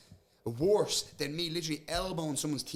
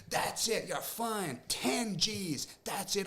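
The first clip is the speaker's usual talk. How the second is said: raised, mock-officious promoter voice; 7 semitones higher, much slower than usual. Fighter mimicking the promoter who fined him. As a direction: do the pompous promoter handing down a fine. Promoter barging in, shouting fine.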